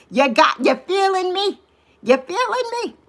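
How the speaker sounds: sassy hype to the chat; hyped-up call-out. Real, not acted. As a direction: pump the viewers up, climbing in pitch. Hyping up viewers, pitch climbing.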